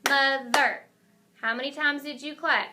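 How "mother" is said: "Mother" louder, in two clapped beats; syllable by syllable. Shown as a demonstration. Teacher clapping along with the class, "Mother" split in two. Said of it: "you clap it with me".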